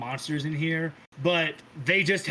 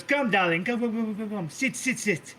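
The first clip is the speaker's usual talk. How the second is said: a hint of a doting, theatrical matriarch calling everyone darling; sweet-talking diva hostess, lightly played; lightly voiced grand Mother; 4 semitones higher than usual. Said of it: "And she goes".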